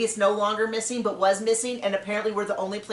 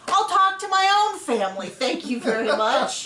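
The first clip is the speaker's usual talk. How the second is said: high-pitched comic indignation; mock indignant; 4 semitones higher than usual. Real, not acted. Joking to co-host about rehashed family fights, mock indignant. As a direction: deliver the punchline in raised exasperation.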